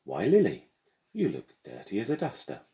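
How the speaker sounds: high, bright mocking girl's voice; teasing schoolgirl. A narrator's reading. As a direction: tease her like a smug classmate. Gemma teasing Lily.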